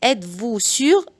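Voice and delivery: very slow, each syllable spelled out; slow it right down so parents can copy; slow model sentence for learners; slow teaching read. Shown as a demonstration. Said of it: "بعيد الجمل بالراحة جدًا".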